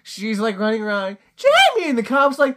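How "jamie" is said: very high-pitched retold yell; mock calling out. Retelling the chase after runaway Jamie, high mock call. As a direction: call the name high, hammed up.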